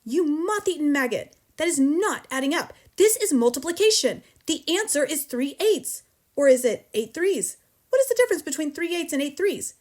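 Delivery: high, loud exasperated lecture; yelled tirade. A narrator's reading. Headmistress corrects pupil on multiplication, yelling. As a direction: hammer the sum home at a yell. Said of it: "yelled the Trunchbull".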